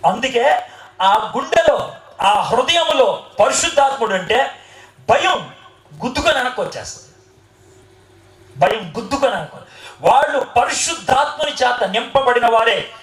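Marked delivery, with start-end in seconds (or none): 5.1-7.1 rattled off fast with a laugh. Shown as a demonstration. Preacher to congregation, quick and laughing. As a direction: toss it off quickly, amused. Preacher illustrates fear bouncing back.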